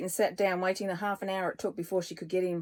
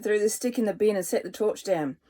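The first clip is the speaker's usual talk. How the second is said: plain reading voice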